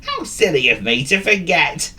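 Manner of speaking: amused, high cartoon dog; self-mocking dog. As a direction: laugh at your own silliness. Dog laughs at himself.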